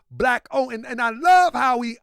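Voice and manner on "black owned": "black owned" punched higher; emphasis on "black owned". Retold or imitated. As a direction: lean firmly on "black owned". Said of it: "how he put emphasis on".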